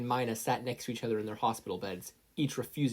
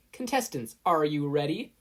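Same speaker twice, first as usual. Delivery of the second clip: high call to contestants; referee call; 5 semitones higher, 5 dB louder than usual. A narrator's reading. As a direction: Midnight starts the match, high and loud. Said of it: "Midnight advised".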